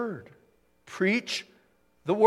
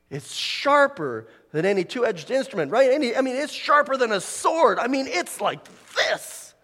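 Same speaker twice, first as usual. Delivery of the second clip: high, excited preaching, building as it goes; fired-up preaching; 8 semitones higher, 8 dB louder than usual. Real, not acted. Preacher likening the word to a sword, fired-up preaching. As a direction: drive it upward with rising fervour.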